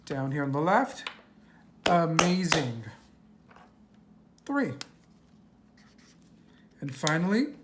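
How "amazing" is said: "amazing" split as a, MAZE, ing; syllable by syllable. Shown as a demonstration. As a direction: sound out "amazing" in separate beats. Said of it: "we're gonna count the syllables".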